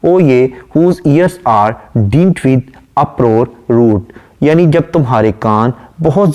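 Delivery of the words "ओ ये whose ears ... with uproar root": slow, measured reading of a poem line; poem recitation. Acted. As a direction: recite it slowly and deliberately. (धीमी, ठहरी हुई कविता-पाठ की आवाज़)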